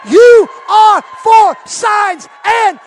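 loud, rising preacher's cry on "rivers"; full-force preaching. Acted. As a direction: preach it to the rafters. Rallying congregation to praise.

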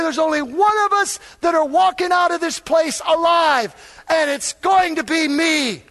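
fiery pulpit shout; preaching at full force. Acted. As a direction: thunder it at the congregation. Lion preaching passage.

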